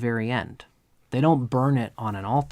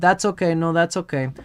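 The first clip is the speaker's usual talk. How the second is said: put-on baby Krishna content; 4 semitones higher, 4 dB louder than usual. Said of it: "And Krishna said".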